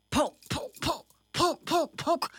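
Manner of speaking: "poke" repeated in short, high, separate jabs; poking rhythm. A narrator's reading. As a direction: jab out each "poke" evenly. Acting out a sister's repeated poking.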